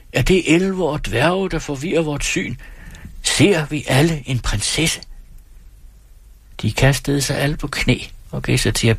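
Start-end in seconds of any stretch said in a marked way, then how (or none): 0.1-5.0 high, wondering anxious questions; anxious cry. Acted. The crowd wonders if elves trick them, high and uneasy. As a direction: call out in awe and doubt. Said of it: "råbte de".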